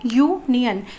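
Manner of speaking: यूनियन said slowly with a clear y sound at the start, as in "यूनियन"; careful pronunciation. Shown as a demonstration. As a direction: pronounce यूनियन so the opening य sound stands out. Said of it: "जब हम यूनियन को pronounce करते हैं". ("यूनियन" को शुरुआत की य ध्वनि साफ़ सुनाते हुए बोलें)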